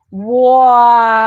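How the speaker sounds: loud shocked wow. Real, not acted. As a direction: blurt it out loud. Reacts to video.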